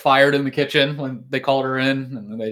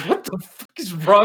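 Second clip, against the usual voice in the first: higher, slow, outraged yell at the TV; mock outraged yell; 5 semitones higher than usual. Dad shouting at his useless son, hammed-up outrage. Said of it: "he just goes".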